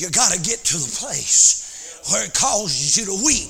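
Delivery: chanted, shouted sermon cadence; preaching at full force. Acted. Preacher telling the church about glory, chanted and shouted. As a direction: build it back up into a holler.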